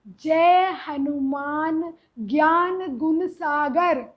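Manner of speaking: slow, tender recital; lovingly. Retold or imitated. Mother shows son the correct verse, slow and tender. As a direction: say it as gently as a prayer. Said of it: "तुमने इतने प्यार से बोला".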